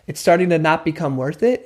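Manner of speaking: calm mirror with a gentle rising end; really calm. Shown as a demonstration. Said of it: "in a really calm way".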